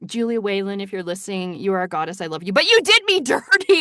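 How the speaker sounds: playful anguished plea to the author; hammed-up heartbroken appeal; half-laughing mock outrage.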